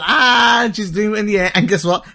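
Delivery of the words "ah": put-on high playful "ah" at a baby; imitated open-mouth ah. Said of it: "she's opening her mouth".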